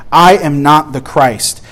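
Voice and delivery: slow, deliberate "I am not the Christ"; emphatic. Retold or imitated. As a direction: weigh out each word of "I am not the Christ". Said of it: "meant to bring emphasis".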